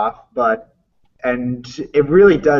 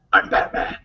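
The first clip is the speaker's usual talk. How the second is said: unvoiced, breathy Batman line; a hushed take on Keaton's Batman; Michael Keaton Batman. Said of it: "there's a Michael Keaton Batman".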